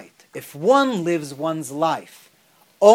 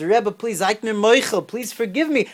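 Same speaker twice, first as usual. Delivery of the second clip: mild pleading, pitched higher without real sobs; retold tearful pleading; 4 semitones higher than usual. Mortified jester begging the Rebbe's pardon, retold tearful pleading. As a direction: plead for forgiveness, imitating distress lightly. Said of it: "he starts crying".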